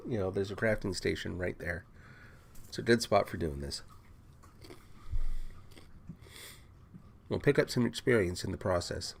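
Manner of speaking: chewing while talking; crunching chips. Real, not acted. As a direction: talk through a mouthful of crunchy snack. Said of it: "Sorry if I'm crunching too loud".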